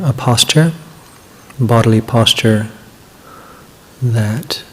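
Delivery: unhurried guidance with long pauses between phrases; measured meditation-leader delivery, words drawn out toward the end; guided meditation. Acted. Begins leading the guided meditation.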